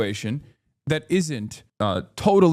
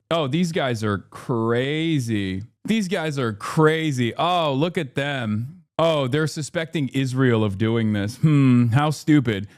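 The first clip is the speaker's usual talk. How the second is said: mock condescending; slower than usual. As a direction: drawl it like a smug pundit. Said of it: "they take this weird tone".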